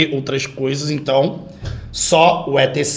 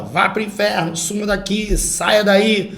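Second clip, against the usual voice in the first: mock orders; 4 semitones higher, slower than usual. Shown as a demonstration. Teacher reads examples of commands, mild mock-commanding tone. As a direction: give half-hearted orders, pitched up. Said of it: "que indica uma ordem".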